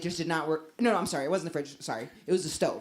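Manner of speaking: ordinary talk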